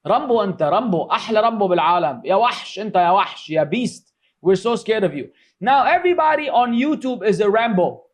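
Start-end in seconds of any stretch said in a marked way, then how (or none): 0.0-5.3 lightly mocking Arab accent, a bit lower; joking Arab accent. Joking with a friend, mock Arab accent praising his toughness. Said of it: "with the Arab accent".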